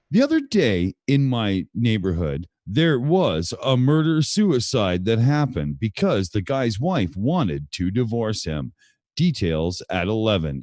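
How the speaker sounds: Walter Cronkite newscaster. Shown as a demonstration. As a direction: read it like a cheesy evening newscaster. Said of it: "go for a more of a Walter Cronkite here".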